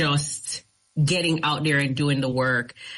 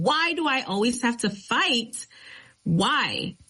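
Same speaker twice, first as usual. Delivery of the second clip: high, pleading retold outcry to God; worked-up list of grievances, mock cry; 6 semitones higher than usual. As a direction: re-enact an exasperated plea, higher but not shouted. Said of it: "crying and I was screaming out".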